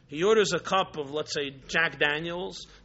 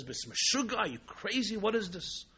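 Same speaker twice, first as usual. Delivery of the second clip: lightly voiced, higher-pitched disbelief; mock a bewildered bartender demanding an explanation; indignant bartender; 3 semitones higher, 5 dB quieter than usual. Bartender confronts the customer who threw a glass, indignant.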